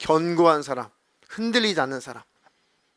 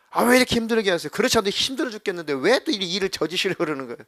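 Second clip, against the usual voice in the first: fast, higher resentful complaint; resentful outburst; 4 semitones higher, faster than usual. Retold or imitated. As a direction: hurl the complaint at him quickly. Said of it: "막 원망하고 막 예수님께 삿대질하고".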